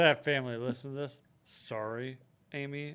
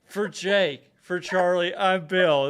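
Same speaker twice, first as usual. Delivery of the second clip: laughing sign-off; 4 semitones higher, 8 dB louder, slower than usual. Real, not acted.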